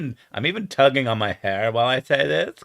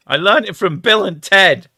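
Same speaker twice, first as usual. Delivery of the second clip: put-on California surfer accent; 7 semitones higher, 9 dB louder than usual. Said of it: "Shitty Cali accent".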